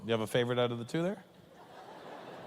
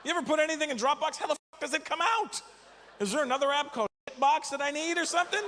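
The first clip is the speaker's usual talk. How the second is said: much higher, shouting disbelief; exasperated rant; 12 semitones higher than usual. Real, not acted. To the audience about Dropbox, an exasperated shouting rant.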